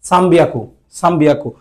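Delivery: সাম্বিয়াকু with a clear m before the b; m-like pronunciation. Shown as a demonstration. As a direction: let the lips close for m in সাম্বিয়াকু. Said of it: "একটা মর মতো উচ্চারণ আসে". (সাম্বিয়াকু-তে ম-এর মতো উচ্চারণ)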